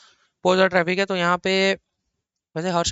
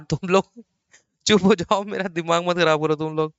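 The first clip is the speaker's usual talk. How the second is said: laughing scold. Real, not acted. Teacher scolding laughing students.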